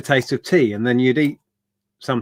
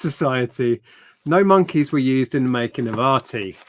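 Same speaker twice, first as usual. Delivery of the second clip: put-on Yorkshire accent. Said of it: "Worst Yorkshire accent ever".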